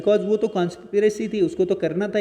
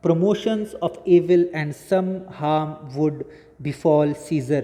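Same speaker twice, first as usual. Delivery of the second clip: measured textbook reading, slow; slow reading aloud; much slower than usual. Acted. Teacher reads the English summary to students, slow dictation pace. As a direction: read each phrase slowly and deliberately, as if dictating.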